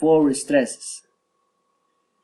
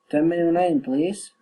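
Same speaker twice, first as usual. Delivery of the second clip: polite lift on "please"; rising request; 3 semitones higher than usual. Shown as a demonstration. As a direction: let "please" turn upward. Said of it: "rising intonation".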